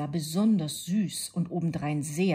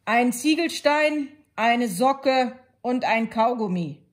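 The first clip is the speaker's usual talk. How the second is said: put-on girl's voice; 6 semitones higher, 9 dB louder than usual. A narrator's reading. Girl lists gifts.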